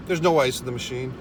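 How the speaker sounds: just state it, no drama; dry, factual report to staff; matter-of-fact. Retold or imitated. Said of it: "I was matter of fucking fact".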